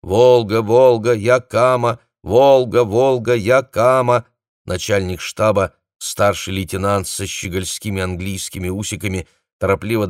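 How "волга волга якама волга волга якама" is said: droning, repeated radio call; monotone call sign. A narrator's reading. Radio operator drones call signs trying to reach regiment. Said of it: "бубня нудно и монотонно".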